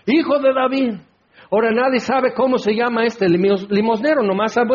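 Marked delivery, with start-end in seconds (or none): 0.1-0.9 crying out. Acted. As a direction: act out a beggar calling over a crowd. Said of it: "comenzó a dar voces".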